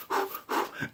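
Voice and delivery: soft, voiceless nervous puffs; quiet huffs of suspense; tense exhale. Retold or imitated. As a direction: imitate an anxious party holding its breath. Party tense, retold.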